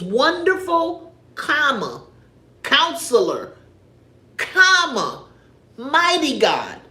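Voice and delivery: slow, with a clear stop and a falling "comma" after each name; pausing at every comma. Shown as a demonstration. Preacher shows her church how to read the commas, slow and deliberate. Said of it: "my pastor told me to pay attention like that".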